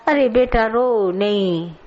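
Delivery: put-on slow, soothing coax to a crying child; a touch of a tender guru soothing; mock consoling.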